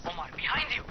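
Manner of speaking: high desperate yell, rising to a scream; panicked warning. Acted. Rahim yells a warning to Omar, panicked.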